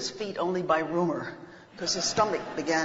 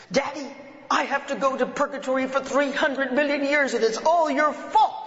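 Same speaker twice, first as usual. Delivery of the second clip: put-on child's voice; 7 semitones higher, 5 dB louder than usual. Child tells father about purgatory.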